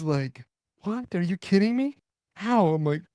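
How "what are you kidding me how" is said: disbelieving buddy. Retold or imitated. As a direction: imitate a buddy who can't believe it, up high.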